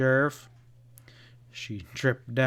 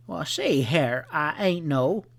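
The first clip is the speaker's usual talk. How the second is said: belligerent; 4 semitones higher than usual. A narrator's reading.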